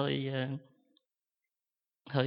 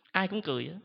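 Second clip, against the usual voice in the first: laughing through the words, pitched higher; 6 semitones higher, 3 dB louder than usual. Real, not acted. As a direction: chuckle it out, amused at himself. Laughs retelling everyone laughing. (vừa cười vừa nói)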